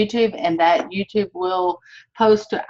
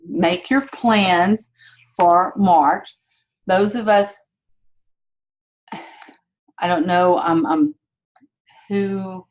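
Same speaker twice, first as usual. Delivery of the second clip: talking while chewing gum; words round a wad of gum; 3 dB louder, slower than usual. Real, not acted. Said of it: "sorry, I can't talk and chew gum at the same time".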